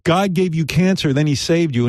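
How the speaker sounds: ordinary delivery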